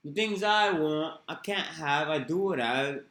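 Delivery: slow, loud mock Manc accent; imitating Mancunian. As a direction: stretch the vowels like a Manc. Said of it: "trying to do that English accent".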